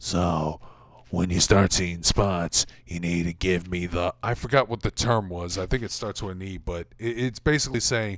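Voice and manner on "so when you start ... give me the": creepy, raspy, put-on old wrestler voice, lower pitch. Retelling Jim Ross doing Stu Hart explaining a hold: creepy raspy Stu Hart voice. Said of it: "Jim Ross does an impression of Stu Hart, which is this creepy, raspy voice".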